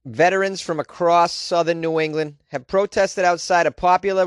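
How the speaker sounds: put-on a light Rhode Island accent, slowed. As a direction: read the news in a mild Rhode Island accent. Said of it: "I'm gonna do a Rhode Island accent".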